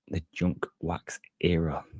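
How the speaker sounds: slow, hushed whisper; whispered aside. Acted. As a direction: whisper the name like a dark secret. Naming the infamous junk wax era.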